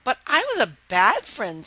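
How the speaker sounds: princess voice. Acted.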